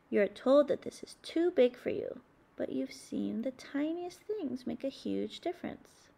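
hushed storybook whisper. Acted. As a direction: whisper it as if sharing a secret. Whispered lines in story reading.

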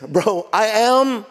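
slow, drawn-out Bro, I am; God replies casually and firmly. Retold or imitated. God answers Moses casually, slow then firm. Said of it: "God does not have an identity crisis".

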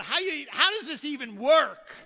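puzzled kid's protest, played up; mock bewilderment. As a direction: question it in acted disbelief. Young self questions mom's threat.

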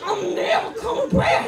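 hammed-up high yelp; escalating comic shriek; high yell. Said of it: "It was more like".

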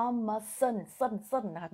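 "Amazon" ending in "เซิน", a short sern; final syllable drilled. Shown as a demonstration. Teacher correcting students' ending, "Amazon" closed with "เซิน". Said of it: "มันเซินเข้าใจบ่".

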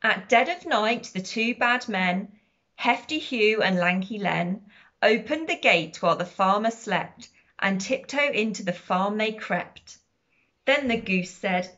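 lively, measured picture-book narration; sing-song storybook read-aloud; reading to children. A narrator's reading. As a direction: read it out clearly for little listeners, bouncing on animal noises.

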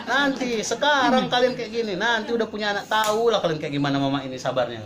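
mock mother, high then settling down; mother's admonition. Mother telling children they'll understand her patience later, admonishing. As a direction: imitate a long-suffering mother's warning. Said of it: "Ibu saya itu bilang".

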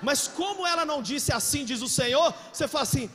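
rising preacher shout; loud preaching. Real, not acted. Preacher shouting at the church crowd, loud. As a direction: drive it home loud to the congregation.

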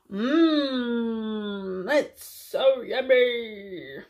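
puppet voice. Pretend. Puppet savours food.

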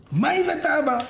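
high, excited question; eager child. Acted. Children asking father what he brought, eager. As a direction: pipe up like an impatient kid.

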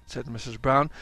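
ordinary delivery, nothing marked

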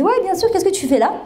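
retold high-pitched teacher's greeting; surprised greeting. Retold reunion with former teacher.

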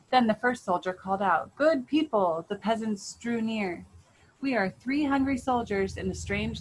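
lively storybook narration with voiced characters; story reading. A narrator's reading. Parent reading a folk tale to the family, lively storytelling. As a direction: read it like a bedtime tale for the kids.

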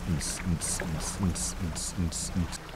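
soft rhythmic "ns, ns"; quiet little repeated sound effect; imitated repeated noise. Player taking a selfie, softly imitated noise.

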